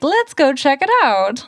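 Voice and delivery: gleefully acted-out call to go. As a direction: imitate an eager kid setting off on an adventure. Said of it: "just gleefully like".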